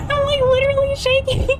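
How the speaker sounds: very high, giddy, laughing excitement; squeal, trembling with adrenaline after a win; overjoyed and shaking. Real, not acted. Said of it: "I'm so happy right now".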